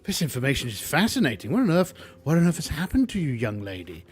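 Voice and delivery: a prissy recluse thrilled by the data; fascinated Tinker Tot. Acted. The Tinker Tot studying Slip, lightly voiced fussy curiosity. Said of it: "the Tinker Tot".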